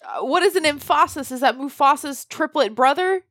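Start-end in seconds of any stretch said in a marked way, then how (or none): 0.3-1.3 puzzled, higher, "emphasis" as em-FAH-sis; echoed wrong stress. Retold or imitated. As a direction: question the odd word "emphasis", stressing its middle. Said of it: "putting the emphasis on the wrong syllable".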